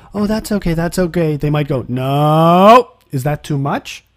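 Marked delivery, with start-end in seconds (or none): 0.1-1.4 mock soothing coo, pitched higher. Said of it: "instead of going". 1.9-4.0 "No" said loud, then a questioning "is that too much?"; a hesitant, asking no. Retold or imitated. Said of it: "It's a little bit questioning".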